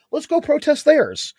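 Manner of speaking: high, loud and slow rallying call; mock battle cry. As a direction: rouse the crew to counter-protest. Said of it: "we're like".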